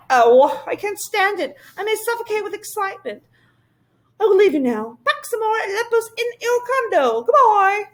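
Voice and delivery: high, breathless thrill; nearly bursting with excitement; high creature voice bubbling over; giddy excitement. Acted. Excited Whangdoodle.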